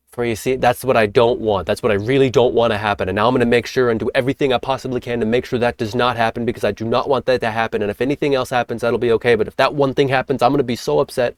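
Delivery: mock-anxious inner voice of someone dreading the worst; anxious worrying. Shown as a demonstration. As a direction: rush it like a worried mind spiralling. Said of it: "perhaps you can feel how that is attracting what is not preferred".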